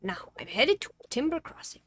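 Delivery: a first, wobbly go at the character; game character voice. Acted. Game character announcing he is headed off, in an uncertain put-on voice. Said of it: "what was the fucking voice that I was doing".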